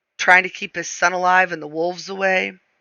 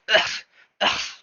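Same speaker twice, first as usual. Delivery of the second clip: mock grunt; 5 dB quieter than usual. A narrator's reading. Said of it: "or a grunt".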